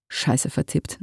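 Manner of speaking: whispered under his breath; a quick whispered swear aside; muttered curse. Acted. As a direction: hiss it to yourself, annoyed at the typo. Typo muttered mid-task.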